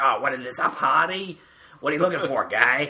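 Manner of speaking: put-on gruff male voice. Showing the Rob impersonation to another speaker: Rob impersonation. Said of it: "do my Rob impersonation".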